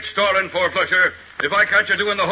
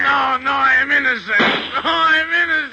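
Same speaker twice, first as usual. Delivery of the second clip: hammed-up bawling; 5 semitones higher than usual. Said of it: "what are you bawling for".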